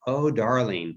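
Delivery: lightly imitated British mother; a touch of British accent, affectionate. Mother speaking to her son, lightly British accent. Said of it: "my mother had a British accent".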